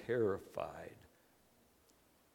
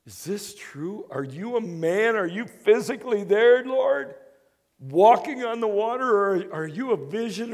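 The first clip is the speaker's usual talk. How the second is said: higher, louder, astonished questions; can't believe his eyes; amazed Peter; 8 semitones higher, 4 dB louder than usual. Retold or imitated. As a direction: Peter calling to Jesus on the water, astonished. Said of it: "Peter's like".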